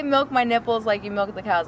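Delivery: put-on Midwest accent. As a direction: purr it like a Midwestern farm girl. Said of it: "I can't do the accent anymore".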